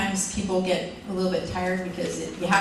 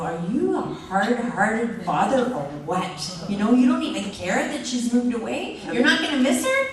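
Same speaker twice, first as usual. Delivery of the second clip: accusation building higher and louder to the end; mock accusing wife; 5 semitones higher, 4 dB louder than usual. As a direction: play the wife pouncing on a hard-hearted husband, rising. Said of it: "I could turn around and say".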